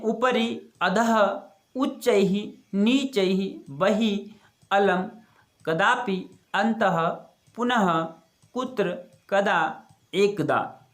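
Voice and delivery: each Sanskrit word said slowly and clearly on its own; "उपरि", "अधः", "उच्चैः" spoken one by one with every syllable crisp, like a teacher's model; careful pronunciation drill. Shown as a demonstration. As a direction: model each word distinctly for students to repeat. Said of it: "तो उच्चारण कर लेते हैं".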